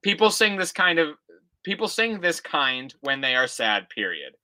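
put-on reading an old essay aloud, punctuation and all; dictating. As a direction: read it out like dictation, calling each comma. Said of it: "I'm telling you the punctuation".

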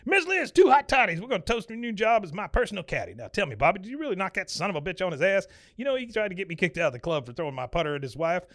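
high, hammed-up boss bluster; boisterous Buck. Buck celebrating Bobby as his new caddy, boisterous. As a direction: start with a holler, then boast.

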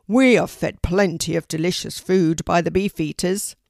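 loud, forceful bird character; grumbling raven. Acted. Rocky the raven grumbles about Poppy, loud put-on voice. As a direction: complain at full voice as a raven.

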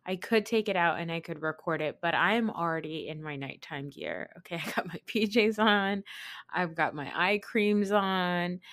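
lisping through a retainer; wearing a retainer. Real, not acted. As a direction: talk with a retainer in. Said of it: "I apologize for the lisp. I have my retainer in".

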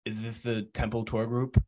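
lightly voiced hobo; timid hobo asking around; cracked rambling vagrant. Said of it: "I go back into my hobo voice".

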